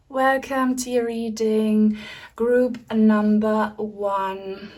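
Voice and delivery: slow welcoming announcement. Acted. Reader greeting group one with a slow, ceremonial welcome. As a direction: draw out group number one slowly.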